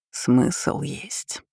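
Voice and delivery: dry, knowing demon voice; ironic. A narrator's reading. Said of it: "с ноткой иронии повторил тот же незнакомый голос". (с ноткой иронии)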